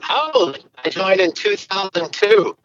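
muffled underwater phone line. Real, not acted. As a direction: sounds like talking underwater. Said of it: "sounds like you're, like, underwater".

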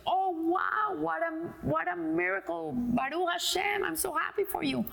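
awed delight; overjoyed congratulations. Acted. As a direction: gush with joy for a friend. Friend congratulates on engagement in joke.

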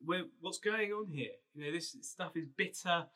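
hammed-up grumbling people; grumbling Israelites. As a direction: whine it like an ungrateful crowd. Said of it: "they grumble at him".

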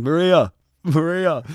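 put-on man knocking at 3am calling to the girl inside. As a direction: call her name through the hotel door. Calling her name at door.

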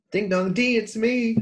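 sing-song ding dong. Retold or imitated. Quoting sing-song doorbell greeting.

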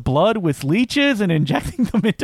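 hammed-up slow denial of a guilty elder; mock defensive denial. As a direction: protest innocence slowly, tongue in cheek. Continues mocking Plummer's suspicious denial.

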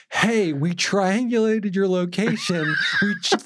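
cop line through laughter; laughing mock cop voice. Mocking the cops' line.

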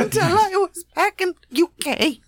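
put-on high laughing Russian accent; hammy Russian accent, laughing; mock Russian accent. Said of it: "He's one of those Russians".

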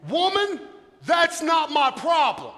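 loud, slow, firm "Woman" then the brush-off; Jesus brushing off. Acted. Jesus telling his mother it's not his problem, firm. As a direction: shut the request down flat. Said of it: "He just".

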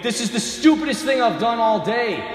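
grumbling half-shout; fed-up outburst, played big; exasperated mock shout.

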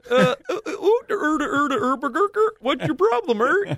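high, hammed-up Scandinavian voice; mock Norwegian accent. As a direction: overdo a Norwegian accent, high and sing-song. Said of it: "That's a Norwegian accent".

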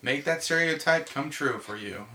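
hammy Texan swagger; hammed-up proud Texan. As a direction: play up the Texan cliché for the tourists. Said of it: "And I'll be like".

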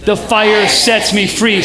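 slow, full-voiced chant; firm, deliberate group declaration; said out loud. Shown as a demonstration. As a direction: spread each word out for the room. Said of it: "when you say it out loud".

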